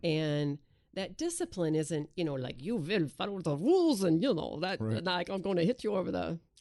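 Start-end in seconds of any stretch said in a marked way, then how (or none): 2.6-6.4 heavily laid-on fake German accent. Describing a strict idea of discipline, in a put-on german accent. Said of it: "It's a great German accent".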